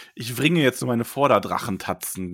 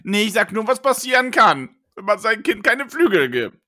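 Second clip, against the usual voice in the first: put-on sulky teen threat; 3 semitones higher than usual. Teen son threatens father.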